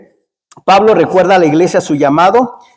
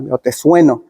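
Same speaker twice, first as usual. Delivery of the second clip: imitated mother's threat; 5 semitones lower than usual. Preacher quotes his mamá threatening him, mock stern. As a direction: drop low for a mock threat. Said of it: "mamá sí siempre me decía".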